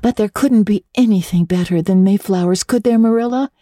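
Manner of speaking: lightly voiced eager girl; a hint of dreamy young Anne. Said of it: "said Anne".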